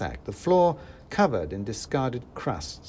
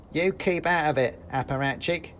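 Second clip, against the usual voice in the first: lightly higher squeaky retort; mouse soldier; 5 semitones higher than usual. Acted. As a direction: brush off the rival mouse. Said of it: "said the first mouse".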